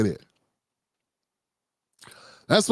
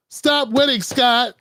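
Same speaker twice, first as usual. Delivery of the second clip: lightly voiced anchor pleading with a guest; Abby Phillip impression; 3 semitones higher, slower than usual. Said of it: "Y'all like my Abby Phillip impersonation".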